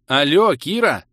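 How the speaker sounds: loud, high alarmed call; yelling. A narrator's reading. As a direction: yell to snap her out of it. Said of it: "заорал я".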